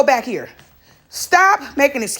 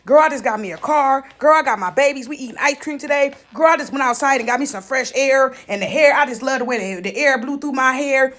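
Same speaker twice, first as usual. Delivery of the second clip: whiny friend. Retold or imitated. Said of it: "she got some sad".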